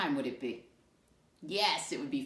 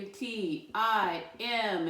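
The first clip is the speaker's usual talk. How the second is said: slow letter spelling; 4 semitones higher, 3 dB louder, much slower than usual. Shown as a demonstration. Teacher spelling a word slowly to the class, letter by letter. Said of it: "Let me hear you".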